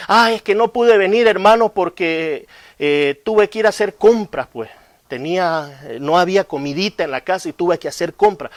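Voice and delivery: mock pleading excuse; excuse-making member.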